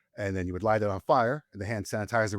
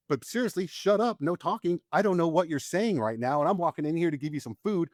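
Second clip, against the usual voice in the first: mock exasperated nagging; 6 semitones higher than usual. Mocking the locals' nagging.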